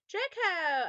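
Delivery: loud, high call. A narrator's reading. Narrator spotting Draco in the woods, excited call. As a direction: cry out the name. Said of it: "I said".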